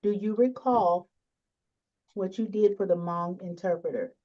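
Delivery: to someone hard of hearing. Real, not acted. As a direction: speak up so they can hear. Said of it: "That I did what?".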